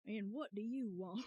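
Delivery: breaking into laughter on the line; laughing retry. Shown as a demonstration. Streamer retrying Grossberg's line while laughing. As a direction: try the line and crack up. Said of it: "I don't know how to do".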